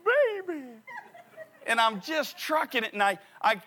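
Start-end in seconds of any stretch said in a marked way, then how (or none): 0.0-0.6 very high, loud triumph; triumphant whoop. Retold or imitated. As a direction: crow like a winner. Crossing toward finish.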